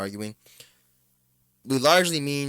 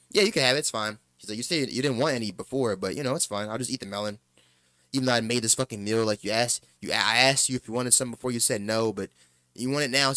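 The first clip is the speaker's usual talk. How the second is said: passive aggressive. Retold or imitated. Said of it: "he's being passive aggressive".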